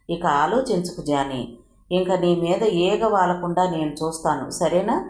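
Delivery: a touch of gentle coaxing; mild comforting tone; soothingly. Acted. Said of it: "అనునయంగా అన్నాడు విఠల్".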